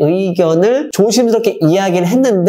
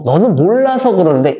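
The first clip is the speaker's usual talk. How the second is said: 1 dismissive parent; 2 semitones higher than usual. Shown as a demonstration. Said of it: "이런 식의 얘기들".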